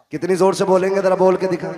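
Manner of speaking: high, loud challenge to the crowd; loud demand. Real, not acted. Preacher testing how loudly the children will answer, loud demand. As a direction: call out forcefully for a response.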